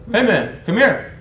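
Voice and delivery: high, loud, drawn-out call; imitated summons. British guy calling his rival over, pushy and loud.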